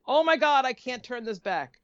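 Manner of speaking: high, mock-horrified realisation; retold alarm. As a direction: act out dawning panic at the countdown. Retold panic at unstoppable call.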